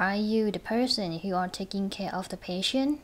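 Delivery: "patient" lifted at the end as a question; rising question tune. Shown as a demonstration. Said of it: "เราจะ stress เสียงสูงนะคะ". (ขึ้นเสียงสูงท้ายคำถามที่ "patient")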